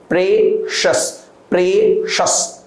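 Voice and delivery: "Precious" repeated slowly as PRESH-us; correct pronunciation. Shown as a demonstration. Teacher drills "precious" for the class. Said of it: "not precious".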